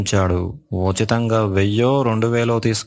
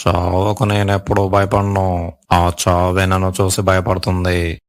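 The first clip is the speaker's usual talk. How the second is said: telugu punch dialogue. Pretend. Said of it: "punch dialogue అదిరిపోయింది".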